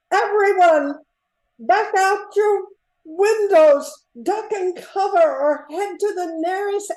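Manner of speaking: loud, urgent call to the crowd; calling out a warning. Acted. Mayor urgently calling to townsfolk during the air raid, loud. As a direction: shout the order over the alarm.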